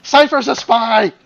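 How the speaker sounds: loud, slow mock accusation. Player jokingly denouncing Cypher to the table, loud. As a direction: shout it like unmasking a traitor. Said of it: "joking accusation".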